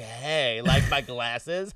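slow, drawn-out flirting imitation; mock flirty. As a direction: imitate a drunk come-on, stretched out. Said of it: "hardcore flirting with Dylan".

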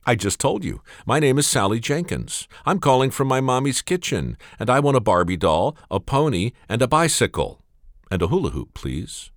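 put-on a small child patiently repeating herself; little girl voice. Little girl repeats her list.

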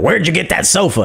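blurted, mock-rude question; rude demand. Rude commenter demanding the sofa's source, mildly mocking. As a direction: imitate an abrupt commenter. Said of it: "you guys are very rude".

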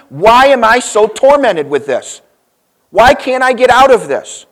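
a tormented man begging God for a way out; anguished plea. Retold or imitated. John crying out to God, building to a high loud plea.

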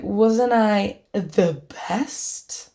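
slow, self-satisfied question; smug drunk brag. Retold or imitated. Drunk friend pushing for the best-kiss title, slow smug drawl. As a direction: draw it out like he expects a yes.

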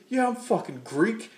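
high, loud mock-defiant shout; hammed-up defiant yell; defiant reply. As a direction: snap back proudly. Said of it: "He's like".

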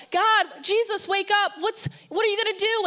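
retold yelling, pitched well up; panicked mock yell. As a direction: act out frightened men yelling for help. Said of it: "they're yelling at him".

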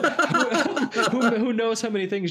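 can't stop giggling mid-rant; laughing. Real, not acted. Cracking up while ranting to co-hosts about Jeremy, laughing.

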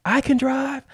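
high, fast heated protest; fifteen-year-old arguing the permit law with the cop, heated and high. Retold or imitated. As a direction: argue the law, getting worked up. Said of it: "I start getting heated".

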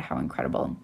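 breathy hushed aside, barely voiced; a hushed, amazed whisper; awed whisper. Real, not acted. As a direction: whisper it to yourself in awe. Awed aside after her gifts.

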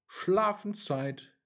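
put-on mother calling her child to bed, slowly. A narrator's reading. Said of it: "rief Mama".

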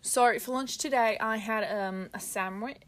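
hesitant, trailing-off Aussie accent; unsure go at an Australian accent; attempted Australian accent. Shown as a demonstration. Answering the lunch question, hesitant Australian accent. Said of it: "I'm gonna try to do an Australian accent".

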